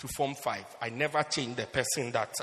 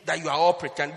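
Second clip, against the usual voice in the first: accusing shout; 6 semitones higher, 9 dB louder than usual. Retold or imitated. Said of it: "I said".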